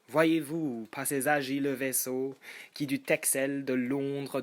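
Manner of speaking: measured, declaimed French verse; lightly heightened poetry reading; poem recitation. Acted. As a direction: recite it line by line with emphatic openings.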